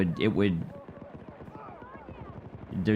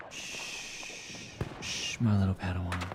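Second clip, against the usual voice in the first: whispering over a crib; 3 semitones lower, 8 dB quieter, slower than usual. Pretend. Sniper hushing a kill.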